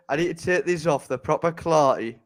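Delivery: light London accent. Shown as a demonstration. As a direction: say it with a touch of London. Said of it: "I love how you do a London accent for it".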